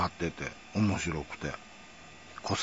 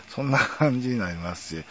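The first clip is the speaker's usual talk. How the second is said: normal talking voice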